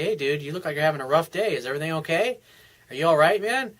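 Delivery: offhand, friendly check-in; nonchalant. Acted. Coach modelling how to approach an unhappy coworker, nonchalant. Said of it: "so in a nonchalantly way".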